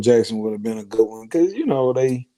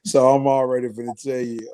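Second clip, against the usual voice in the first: wearing teeth grill; 2 semitones higher than usual. Real, not acted. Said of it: "I got my grill in my mouth".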